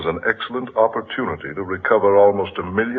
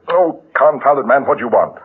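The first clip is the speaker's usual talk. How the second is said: exasperated; 5 semitones higher, 6 dB louder than usual. Acted. Woken at midnight, exasperated.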